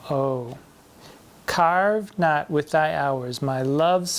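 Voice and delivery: measured, slow sonnet reading, key words weighted; slow, declaimed verse; poetry recitation. Acted. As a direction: recite the sonnet deliberately, pausing after each line.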